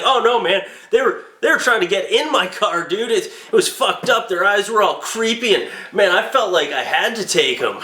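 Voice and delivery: lie your way out to the police; guilty excuse. Retold or imitated. Suspect stammering excuses to the police. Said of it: "he was like".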